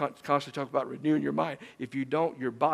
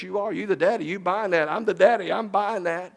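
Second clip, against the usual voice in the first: higher, louder mock resignation; mock self-persuasion; 6 semitones higher, 5 dB louder than usual. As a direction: talk yourself into it. Mock argument with himself.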